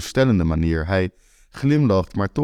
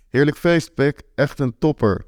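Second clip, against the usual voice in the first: forced praise; 6 semitones higher than usual. Acted. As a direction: overdo the compliment, hollow and dutiful. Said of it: "zeg ik verplicht". (geforceerd enthousiast compliment aan de gastheer)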